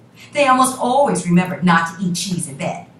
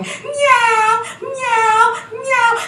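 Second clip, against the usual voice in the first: high, loud yowling meows; high drawn-out cat cry; 5 dB louder, much slower than usual. Acted. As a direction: yowl like a menacing cat. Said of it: "kept coming towards them going".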